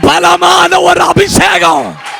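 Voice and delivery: full-force preaching. Real, not acted. Preacher declares the angel's touch to the congregation, full-force preaching. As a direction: declare it to the congregation in sustained, driving shouts.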